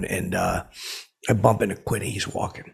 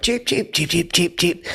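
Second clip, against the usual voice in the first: high chirping cheeps; bird chirps; 9 semitones higher than usual. Retold or imitated. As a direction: peep like a little cage bird. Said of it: "the birds go like".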